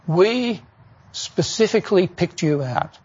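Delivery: earnest, measured parental reassurance; quoting serious parents, deliberate and sincere. Retold or imitated. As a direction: say it seriously, with a pause after "We". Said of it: "they were very serious".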